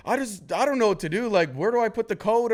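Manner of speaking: a hint of helpless whining in imitation; imitated helpless girlfriend. Imitating girlfriend who cannot cope.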